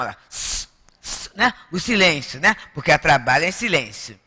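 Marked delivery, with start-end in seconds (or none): 0.3-1.3 soft unvoiced sss like a pressure cooker; imitating a pressure cooker's hiss. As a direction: hiss it out like steam escaping a pot. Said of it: "A gente chamava de panela de pressão".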